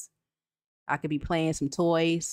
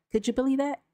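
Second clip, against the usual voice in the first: incredulous; 7 semitones higher, faster than usual. Real, not acted. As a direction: ask in outraged disbelief. Outraged repeat.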